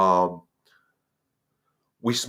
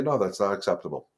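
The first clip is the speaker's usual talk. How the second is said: firm no; 3 semitones lower than usual. Shown as a demonstration. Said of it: "you're gonna say".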